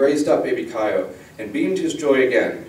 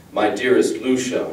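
deep voice. A narrator's reading. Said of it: "a deep voice coming from inside".

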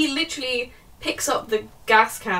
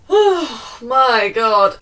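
very slow, louder oh my god; exasperated groan; 9 dB louder, much slower than usual. Real, not acted. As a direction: drag it out in disbelief. After a sigh at the plot.

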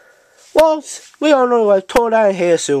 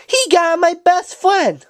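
outraged cry; 9 semitones higher than usual. Acted. Another toy accuses Politoed.

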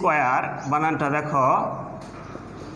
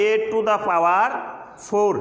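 slow demo; much slower than usual. Shown as a demonstration. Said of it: "এটার উচ্চারণ কী করতে হয়".

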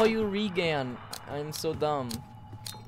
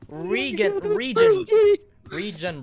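calling out; 10 semitones higher, 5 dB louder, slower than usual. Real, not acted. Calling teammate's name, jumping.

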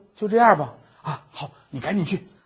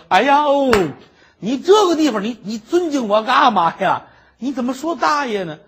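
higher and louder, tripping over the words; flustered protest; 8 semitones higher, 7 dB louder than usual. Acted. Scholar protests to the maid, flustered and loud. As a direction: scold her in a fluster.

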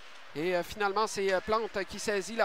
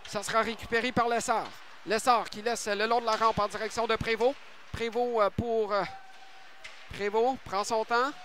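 french sports commentary. Real, not acted. Live hockey play-by-play.

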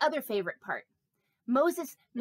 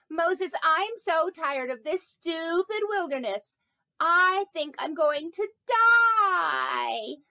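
whiny complaining; 3 semitones higher, 3 dB louder, slower than usual. Retold or imitated. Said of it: "they're so whiny".

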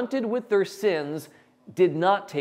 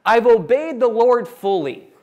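slow, higher and louder insistence; smug protest; 6 semitones higher, 8 dB louder than usual. Acted. Saul insisting to Samuel he obeyed, smug and loud. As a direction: oversell your own innocence. Saul's self-justification.

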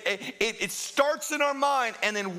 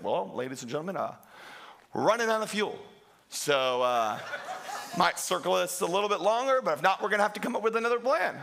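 calm pilot announcement. Retold or imitated. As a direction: play it down like a pilot on the intercom. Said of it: "he goes over a few minutes later, like".

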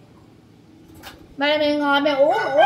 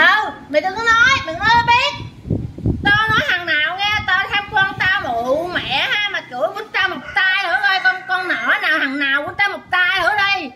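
real hollering tirade; 3 semitones higher than usual. Real, not acted. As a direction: dare them in an insistent, raised voice. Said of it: "Nó la làng". (la làng thách thức, giọng cao)

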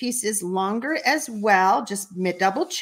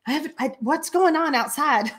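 1 laughing disbelief; 4 semitones higher than usual. Retold or imitated. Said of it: "We're like".

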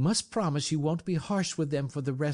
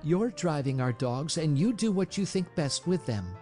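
high-pitched, loyal insistence; pointed; 8 semitones higher than usual. A narrator's reading. Mercedes to brother about driving the dogs, pointed high tone. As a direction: side with him pointedly, pitch raised. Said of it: "she said pointedly".

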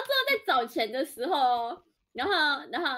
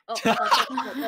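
usual speaking voice

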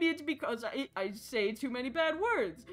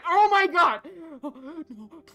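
loud laughing screams; laugh-scream in panic; panicked laughing; 8 semitones higher, 10 dB louder, much slower than usual. Real, not acted.

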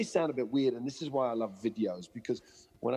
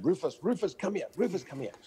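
raised-pitch mock dog call; retold calling shout; 7 semitones higher than usual. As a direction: imitate an owner calling his dog, without real volume. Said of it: "And he'd be shouting".

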